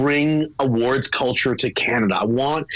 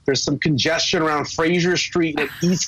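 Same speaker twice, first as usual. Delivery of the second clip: mock traffic report, higher and brighter; traffic reporter; 4 semitones higher than usual. Guest teasing the hosts with a traffic update, mock reporter voice. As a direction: play the morning traffic reporter as a joke. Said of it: "Thank you for the update this morning".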